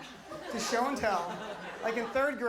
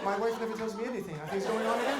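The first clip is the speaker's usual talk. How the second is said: put-on dad's Palestinian accent. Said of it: "my dad has an accent".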